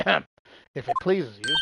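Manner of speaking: slow, put-on Yankee accent. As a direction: talk Yank, slow and proper. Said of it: "I can talk Yank for you".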